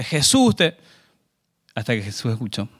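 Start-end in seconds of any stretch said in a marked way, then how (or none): 0.0-0.8 high, insistent mock yell; crying out louder. Blind man calling Jesus despite being told to hush, crying out louder. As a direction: call out over those silencing you. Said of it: "él gritaba más fuerte".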